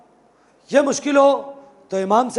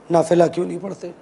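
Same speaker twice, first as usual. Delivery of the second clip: "नाफिला क्यों नहीं पढ़ते?" dropped lower and rushed, fading; lower, quicker repeat; 5 semitones lower, faster than usual. Retold or imitated. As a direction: let the third time fall away fast and low. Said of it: "तीन लफ्ज़, तीन मरतबा". ("नाफिला क्यों नहीं पढ़ते?" धीमे, नीचे सुर में और तेज़ी से)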